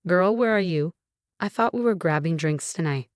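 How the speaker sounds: a hint of an eager friend on the line; Zoe on the phone.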